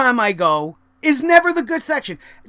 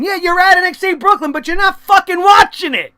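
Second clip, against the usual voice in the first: exasperated rant; 5 semitones higher, 3 dB louder than usual. Real, not acted. Scolding phone-using fans.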